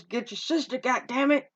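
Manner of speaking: half-hearted retold holler; retold yell. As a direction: imitate an angry father yelling after someone. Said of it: "comes out and yells".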